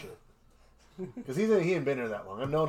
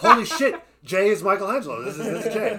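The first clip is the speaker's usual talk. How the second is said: laughing excited exclamation, higher, louder; 7 semitones higher, 8 dB louder than usual. Retold or imitated. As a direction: burst out in laughing amazement. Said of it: "You're like".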